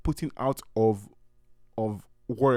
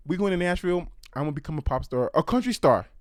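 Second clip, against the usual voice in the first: mock Southern twang, raised and declaring; hammed-up country-girl accent announcing her plans; odd put-on accent; 4 semitones higher, 3 dB louder, faster than usual. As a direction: keep up the vague country accent with big dreams. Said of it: "let's stick with it".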